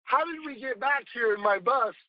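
mock amazement that fades toward normal; retold baffled how did we get here, high at first; bewildered disbelief. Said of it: "I looked at you and I go".

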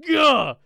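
sudden high frustrated "gah"; frustrated shriek. Retold or imitated. Cashier to coworker after the customer leaves, frustrated shriek. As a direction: blurt it like you're pulling your hair out.

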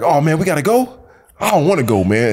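mildly whining reluctance; reluctant guy. Acted. Friend voicing the reluctant guy in an action movie, reluctant. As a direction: act out a reluctant sidekick. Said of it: "that reluctant guy that's like".

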